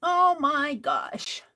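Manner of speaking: a pet's exaggerated groan. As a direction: stretch it out in loud fake despair. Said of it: "He says".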